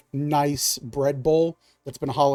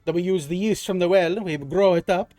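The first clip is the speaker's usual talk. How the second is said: put-on higher, lightly accented shopkeeper voice, eager to sell; rat folk baker; 5 semitones higher, 3 dB louder than usual. Rat baker talking his customers through the order, in a higher, eager shopkeeper voice. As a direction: play a chatty rat baker pushing his bread.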